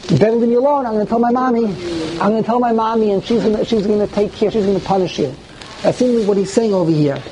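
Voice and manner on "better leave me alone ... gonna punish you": lightly voiced kid threatening a playmate; childish taunt. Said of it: "You ever see children when they fight?".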